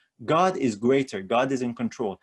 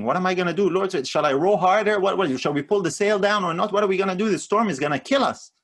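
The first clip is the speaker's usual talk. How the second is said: mock panicked pleading; 5 semitones higher than usual. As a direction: act out the disciples' panic in the storm, half-hammed. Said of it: "That's the attitude of the disciples".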